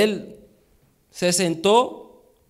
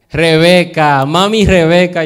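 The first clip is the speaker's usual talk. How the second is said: loud answer; 7 dB louder than usual. Real, not acted. Answering his own quiz question.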